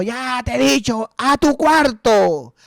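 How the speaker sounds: imitating a scolding mother, high and slow; mujer gritando al hijo. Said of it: "le grita al hijo mayor". (imitando a una madre que regaña, aguda)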